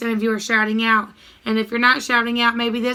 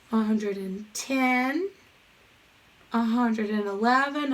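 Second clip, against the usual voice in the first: counting aloud; slower than usual. Shown as a demonstration. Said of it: "Count with me".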